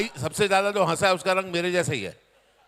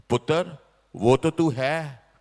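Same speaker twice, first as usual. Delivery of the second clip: tender; 5 semitones lower, 3 dB louder, slower than usual. Retold or imitated. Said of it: "बहुत प्यार से".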